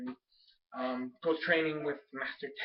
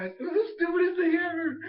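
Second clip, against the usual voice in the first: exasperated shout; 12 semitones higher, 5 dB louder than usual. Real, not acted. Ranting about the scene.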